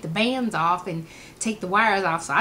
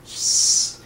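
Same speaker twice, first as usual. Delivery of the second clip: long airy hiss of relief; gas release noise; 3 dB louder than usual. Retold or imitated. Imitating letting gas go behind manager, long hiss. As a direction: imitate gas escaping with a shush. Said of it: "like that, let it go".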